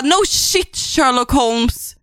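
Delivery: dry, slow sarcasm; sarcastic retort. Retold or imitated. Reader mocking the heroine with dry sarcasm. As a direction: drag out the put-down. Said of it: "Man bara".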